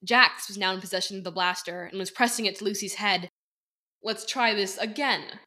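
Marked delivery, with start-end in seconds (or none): 4.0-5.4 smoothly. Acted. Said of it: "Harrison said smoothly".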